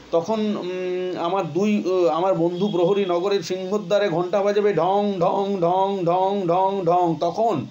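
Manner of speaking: light up at the thought; eager child. Acted. Amal asks the messenger about midnight, eager. Boy excited, imitates gong.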